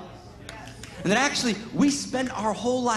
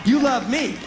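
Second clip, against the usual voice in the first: fervent shout; 5 dB louder, slower than usual. Acted. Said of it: "rousing the crowd".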